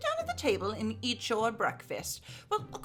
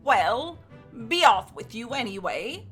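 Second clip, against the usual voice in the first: shooing him off; 3 semitones higher, 8 dB louder than usual. Acted. Wife shoos Jack away.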